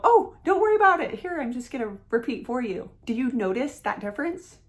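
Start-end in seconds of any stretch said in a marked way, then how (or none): 0.0-2.9 reassuring. Retold or imitated. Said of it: "The second reply makes me feel".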